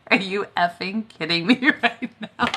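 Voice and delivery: cracking up mid-question; can't keep a straight face while asking; giggling through the words; laughing disbelief. Retold or imitated. Retelling her disbelief, laughing.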